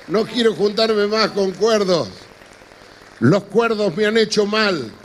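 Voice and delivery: loud, slow proclamation; loud declaration. Real, not acted. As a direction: proclaim it slowly to the crowd. Emphatic declaration to audience.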